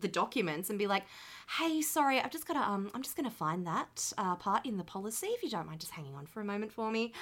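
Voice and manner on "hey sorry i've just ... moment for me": polite phone agent voice; sweetly apologetic call centre voice; customer service voice. Retold or imitated. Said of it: "when you use your customer service voice".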